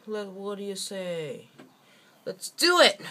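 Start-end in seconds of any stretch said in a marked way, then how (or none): 2.3-3.0 excited shout. Pretend. Rallying the party.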